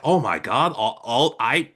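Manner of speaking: retold panic, pitch jumping up midway; lightly acted panicked disbelief; mock panic. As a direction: imitate someone flustered and panicking. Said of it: "he starts panicking like".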